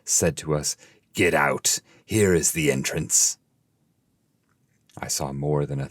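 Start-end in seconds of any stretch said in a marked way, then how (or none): 1.1-3.4 pilot shouting louder at the landing; loud shouts. Acted. Pilot orders the travelers off the boat, shouting. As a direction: call it out loud and hard. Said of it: "with loud shouts".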